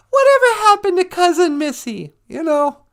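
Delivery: high, far put-on voice; playful high character voice. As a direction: ask it in a silly high character voice.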